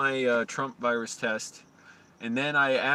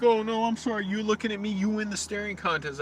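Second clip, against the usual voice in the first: mock-timid, higher voice; mock cowering; 10 semitones higher than usual. Mocking how he'd cower before the guard, high sarcastic. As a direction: pretend to grovel, sarcastically. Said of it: "gonna cower".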